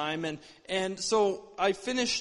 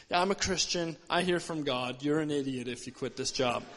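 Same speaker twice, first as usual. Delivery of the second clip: lightly voiced boss, pitched lower; a hint of a lecturing boss, low; disapproving boss; 4 semitones lower than usual. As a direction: put the employee down in a low, matter-of-fact voice. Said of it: "my boss was a Christian at the time, and he said".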